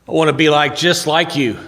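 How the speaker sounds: put-on the keen young student, all wide-eyed hope; eager student. Eager student pleads with Socrates.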